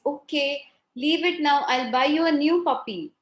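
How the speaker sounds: consoling father. Acted. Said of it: "father is trying to console the child".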